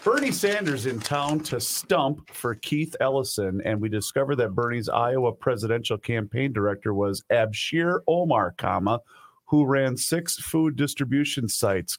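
reading back. Real, not acted. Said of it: "Read it back to me".

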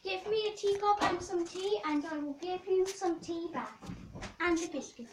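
lightly voiced posh queen. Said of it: "posh voice".

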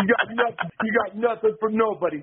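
imitating an Italian tough guy; Roddy's Italian accent. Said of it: "Roddy's talking like Italian".

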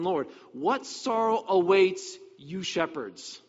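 measured, solemn Bible reading; scripture reading. Acted. Preacher reads Ezekiel aloud to congregation, solemn and measured. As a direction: read it like a prophet's warning.

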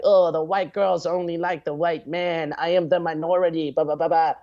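hammed-up self-pity, dragged out; whiny complaining. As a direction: whine it like a self-pitying guy. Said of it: "bitch about it and whine about it".

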